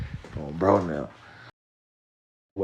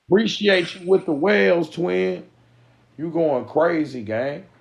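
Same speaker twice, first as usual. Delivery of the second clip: higher and louder, hyped shout-out to a viewer; hyped thanks; 8 semitones higher, 5 dB louder than usual. Real, not acted. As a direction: thank the gifter with real excitement.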